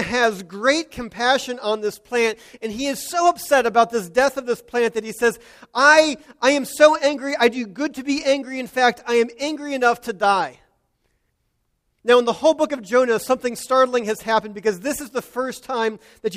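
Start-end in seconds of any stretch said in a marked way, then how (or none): 5.7-10.6 angry outburst. Retold or imitated. Preacher voicing Jonah's angry outburst.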